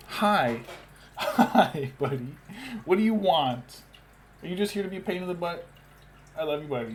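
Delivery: high, loud cooing pet voice. Real, not acted. Streamer greets her attention-seeking cat in loud, high baby talk. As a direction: coo and gush over the needy cat.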